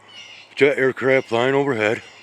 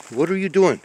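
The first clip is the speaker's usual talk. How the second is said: firmer mock scold; 8 semitones higher than usual. Real, not acted. Scolding a cat again.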